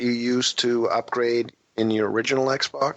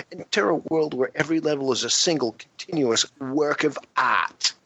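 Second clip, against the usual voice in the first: hammed-up higher lobster creature voice; Lobster Man voice; 3 semitones higher than usual. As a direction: read it like a goofy lobster man, pitched up. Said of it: "read the description here for us in that voice".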